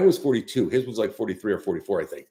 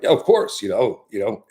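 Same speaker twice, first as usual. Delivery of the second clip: eager yes; 5 dB louder than usual. Retold or imitated. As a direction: imitate the buddies jumping at the idea. Friends eagerly agreeing, imitated.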